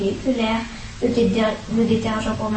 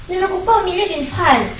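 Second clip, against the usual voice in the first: put-on higher, cross old-woman yell; 6 semitones higher than usual. A narrator's reading. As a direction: snap at him for interrupting. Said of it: "hurla-t-elle".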